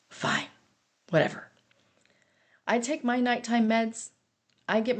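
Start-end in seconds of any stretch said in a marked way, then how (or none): 0.1-1.5 low, deflated concession; resigned giving in. Retold or imitated. Wife letting husband ride off to the bar, resigned. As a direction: give up and let it go. Gives in after a sigh.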